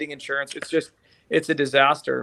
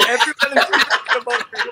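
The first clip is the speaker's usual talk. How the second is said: wife's warning; 8 semitones higher, 4 dB louder than usual. Retold or imitated. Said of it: "She's like".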